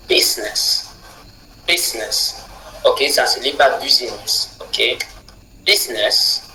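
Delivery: business with bis stressed, ness weak; first-syllable stress. Shown as a demonstration. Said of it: "le bis du départ est accentué". (business accentué sur bis)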